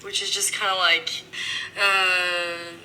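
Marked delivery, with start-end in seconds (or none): 1.8-2.7 long, level French "uh"; drawn-out "uh" in French hesitation; French pause sound. Shown as a demonstration. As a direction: hold the "uh" like a French filler. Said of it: "the French have a sound for their pauses".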